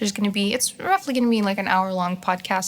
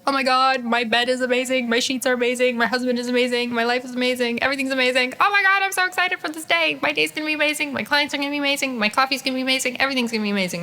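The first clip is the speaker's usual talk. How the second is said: higher, giddy gushing; bubbly higher voice, building then settling; morning gratitude; 5 semitones higher, faster than usual. Retold or imitated. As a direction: gush about everything like you just woke to a perfect day. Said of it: "you wake up and you're like".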